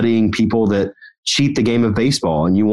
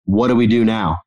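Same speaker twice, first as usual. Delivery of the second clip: put-on funny Scottish accent; slower than usual. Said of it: "he's got this really funny accent".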